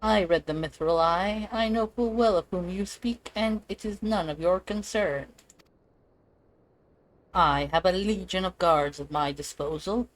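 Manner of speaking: lightly voiced haughty villain, cold and measured; a hint of a gloating aristocrat threatening intruders; scheming noble villain. Villain warning off the heroes, lightly gloating. Reads villain dialogue in game.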